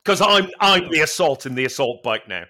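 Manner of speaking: mock champion trash talk; triumphant taunt. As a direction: gloat over the beaten bike. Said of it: "I was like".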